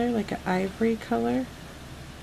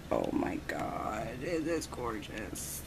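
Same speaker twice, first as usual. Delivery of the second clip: breathless little whisper, much lower and softer, slow; awed whisper; 11 semitones lower, 9 dB quieter, slower than usual. Real, not acted. Showing viewers the gorgeous mixes, an awed whisper. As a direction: whisper it like it's too beautiful to say aloud.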